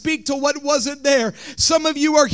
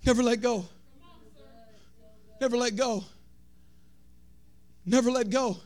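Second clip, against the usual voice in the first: soft repeat; 7 dB quieter than usual. Shown as a demonstration. Repeated softly after loud take.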